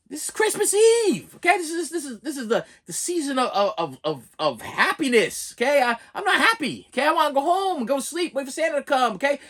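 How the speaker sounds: put-on child begging his family to go home, high and whiny; whiny kid pleading. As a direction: whine like a kid on Christmas Eve. Kid pleading about Christmas.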